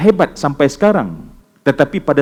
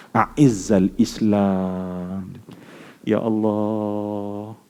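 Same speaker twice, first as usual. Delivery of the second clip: pleading prayer; 6 semitones lower, 6 dB quieter, much slower than usual. Acted. Prophet's prayer voiced, drawn out.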